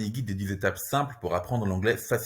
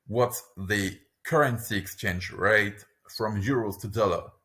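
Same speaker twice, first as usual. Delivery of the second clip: slow, careful delivery; careful teaching pace; slower; 2 semitones lower than usual. Shown as a demonstration. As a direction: model it slowly for the learner. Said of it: "lesson repeats phrase twice".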